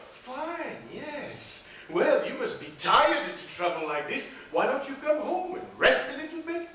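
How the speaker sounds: lightly voiced witch. Witch invites them home.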